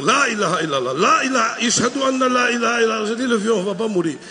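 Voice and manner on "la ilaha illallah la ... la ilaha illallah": prayer rising to a cry; panicked prayer. Retold or imitated. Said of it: "Il a commencé à faire". (prière de plus en plus paniquée)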